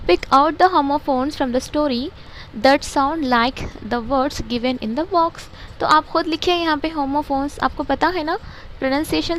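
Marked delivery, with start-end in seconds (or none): 0.1-5.4 slow textbook reading. Shown as a demonstration. Teacher reading the textbook aloud to pupils, slow and deliberate. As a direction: read each English word slowly and evenly, like dictation.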